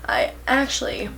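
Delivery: hushed, sheepish aside; embarrassed whisper. Real, not acted. Admitting her fan notifications in a sheepish whisper. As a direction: drop to a whisper, a bit ashamed.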